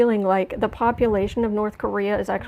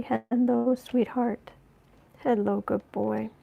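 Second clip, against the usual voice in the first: cooing to the cat; 3 dB quieter, slower than usual. Real, not acted. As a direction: sweet-talk the cat softly. Talking sweetly to her cat.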